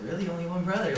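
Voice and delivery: lightly acted surprise, pitch lifted; surprised child. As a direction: retell a child's astonished question. Child astonished at small family.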